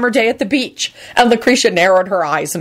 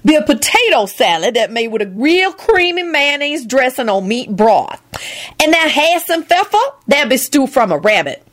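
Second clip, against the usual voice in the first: high cook voice, know-it-all; show-off Lucretia; 7 semitones higher than usual. A narrator's reading. Lucretia lecturing at the table, high show-off voice. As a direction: explain the menu like a know-it-all.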